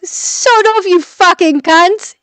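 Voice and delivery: put-on high, loud British-accented outburst; mock-angry British swearing, drawn out at the end. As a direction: tell them off in a British accent. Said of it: "My accent is amazing".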